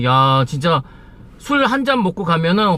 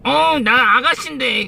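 higher, playful pouty voice; coy older woman; 6 semitones higher than usual. Retold or imitated. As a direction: tease like an aging hostess. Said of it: "앙탈을 부리더라고요".

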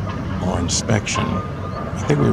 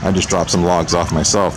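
put-on Texas accent. Vlogger admiring a truck of logs, in a Texas accent. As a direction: slip into a Texan accent for manly stuff. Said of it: "I just default to my Texas accent".

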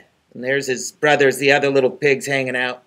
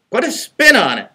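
Rumpelstiltskin voice; 7 semitones higher than usual. A narrator's reading. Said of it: "Rumpelstiltskin suggested".

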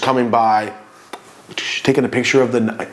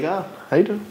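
nice and polite; 7 semitones higher, 5 dB quieter, faster than usual. Retold or imitated. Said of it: "eh, but nicely".

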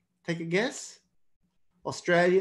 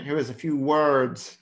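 lightly imitated American accent. Teacher echoing the recording to point out its accent, lightly American. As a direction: echo the clip with a hint of American. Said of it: "It's a bit American".

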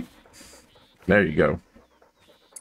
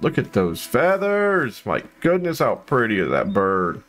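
high, slow marveling; real wonder, pitched up and drawn out; awed admiration; 3 semitones higher, slower than usual. Real, not acted. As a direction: marvel at it, stretching the key word high. Admiring the bird's feathers.

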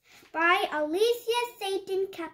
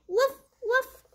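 high little woof woof of a puppy; puppy bark; 5 semitones higher than usual. Acted. The puppy Biscuit barking back, high happy woofs. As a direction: yip it like a happy small dog.

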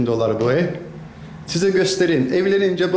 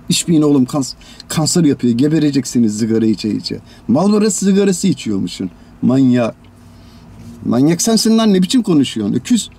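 loud scolding; 4 dB louder than usual. Acted. Scolding smokers, then trading insults.

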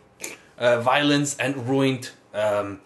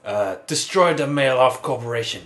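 put-on French accent. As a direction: deliver it grandly in French accent. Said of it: "What happened to your French accent".

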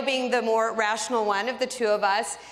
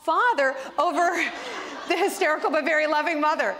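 half-laughing indignant complaint at the doctor; mock angry protest; 5 semitones higher than usual. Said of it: "so angry, like".

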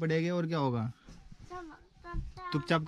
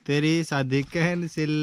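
put-on repeating after child; 4 dB louder, slower than usual. Shown as a demonstration. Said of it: "Chandu चाचू बोलो".

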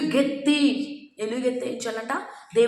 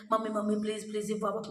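put-on child begging; 7 dB quieter, faster than usual. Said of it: "అని చాలాసార్లు అడుగుతాం".

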